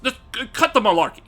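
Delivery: mild-mannered scolding, lightly imitated; a hint of a square guy trying to go hard; half-hearted, stumbling telling-off; mock whitest-guy voice. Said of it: "the whitest way you can explain it".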